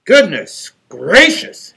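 slow, drawn-out mock surprise; exclaiming. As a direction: stretch it like a dawning realisation. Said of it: "exclaimed B B Wolf".

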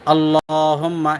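আল্লাহুম্মা drawn out, the vowel after লাম held one alif and the মিম nasalised; slow demonstration of আল্লাহুম্মা for learners; tajweed demo. Shown as a demonstration. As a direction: say আল্লাহুম্মা slowly with full ghunna on মিম. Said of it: "এই খারা জবর".

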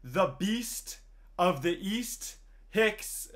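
slow, spaced-out nickname roll call; hammed-up player introduction. Gamer introducing batter Aaron Hicks by nicknames, drawn-out mock announcement. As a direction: draw out each title with a pause.

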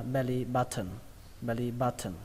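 "button" ending in a clear "tn" syllable; t sounded. Shown as a demonstration. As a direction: say "button" as ba-thờn. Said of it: "âm turn hoặc là âm thần". (đọc "button" thành "ba-thờn")

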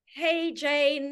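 a bit nervous. Retold or imitated. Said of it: "a little bit nervous".

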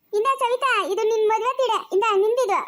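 put-on high-pitched childish lisp; lisping childlike character. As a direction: pipe up high with babyish consonants. (ತೊದಲು ಮಾತಿನ ಮಗುವಿನಂಥ ಧ್ವನಿ)

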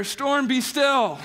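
drawn-out, acted authoritative command; commanding the storm. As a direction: order the storm down, word by word.

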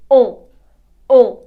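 «Ен» as a single short nasal vowel; E plus nasal. Shown as a demonstration. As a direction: push «Ен» through the nose without a real N. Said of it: "далі йде в нас носовий звук".

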